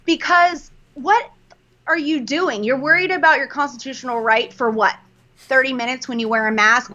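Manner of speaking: really frustrated, stretching the first words. Real, not acted. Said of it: "I am frustrated and pissed off".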